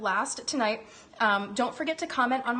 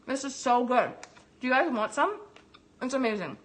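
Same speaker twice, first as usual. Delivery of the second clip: delighted. Real, not acted. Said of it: "Oh my God".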